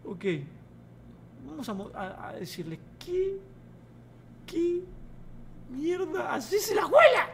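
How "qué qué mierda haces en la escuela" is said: halting, high mock scolding; high-pitched scolding. Teacher telling off the class, high halting scold. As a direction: pitch it up, word by word.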